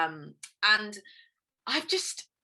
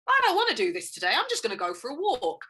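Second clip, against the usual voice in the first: carefree inner voice; 4 semitones higher than usual. Retold or imitated. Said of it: "in that flow of".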